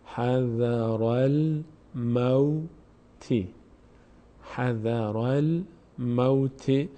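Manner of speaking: slow, drawn-out Quranic recitation. Shown as a demonstration. Tutor reciting the phrase slowly for students. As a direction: intone the phrase, lengthening every vowel. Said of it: "در هنگام وصل کردن".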